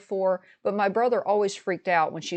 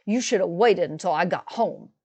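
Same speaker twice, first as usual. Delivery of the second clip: a held-down, teeth-clenched mock rebuke; through clenched teeth. Brother rebukes his sister in front of their mother, through clenched teeth. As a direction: hold the anger behind your teeth. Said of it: "through clenched teeth".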